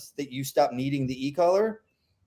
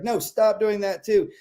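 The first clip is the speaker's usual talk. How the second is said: exasperated owner; 7 semitones higher than usual. Retold or imitated. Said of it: "And then you're like".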